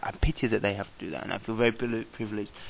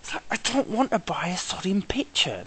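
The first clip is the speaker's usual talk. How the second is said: whispered grumble; 8 semitones higher than usual. Real, not acted. Muttered annoyance at hawkers.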